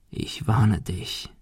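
soft, slow threat; quiet, deliberate parting threat; menacing warning. Acted. Bully warns before leaving.

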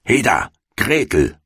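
high-pitched witch's call. A narrator's reading. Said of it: "rief sie dem Mädchen zu". (dem Mädchen zurufend)

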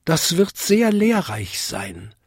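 high, tinkling little bell; eager-to-please high bell voice; Vinzi. A narrator's reading. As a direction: chime it high like a tiny bell. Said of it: "bimmelte Vinzi".

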